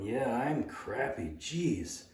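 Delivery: quiet, slow mock self-reproach; a touch downcast, muttered with head down; mildly dejected. Boy takes the coach's scolding to heart, understated glum voice. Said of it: "my head down".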